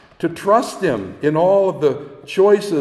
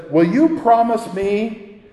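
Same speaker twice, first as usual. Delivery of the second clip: put-on frightened girl; 4 semitones higher than usual. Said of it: "and she says".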